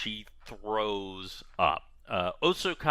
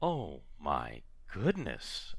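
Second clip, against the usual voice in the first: soft, slow, low amazement; overwhelmed with thanks, barely above murmuring; hushed, drawn-out gratitude; grateful wonder; 5 semitones lower, 6 dB quieter, much slower than usual. Acted. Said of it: "with incredible gratefulness".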